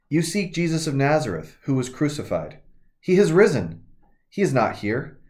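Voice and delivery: measured, solemn Bible reading; scripture reading. Acted. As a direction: read the Gospel aloud to the congregation. Pastor reads scripture passage.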